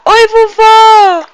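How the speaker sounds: put-on high, slow cooing baby voice; mother voicing her baby to grandma, high and slow. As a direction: speak for the baby, sweet and drawn out, to grandma. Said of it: "Vai falar".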